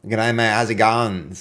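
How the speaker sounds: a light Australian accent; easy Australian greeting; Aussie accent. Shown as a demonstration. Showing Matthew how an Aussie speaks, light Australian accent. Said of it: "That's how an Aussie speaks".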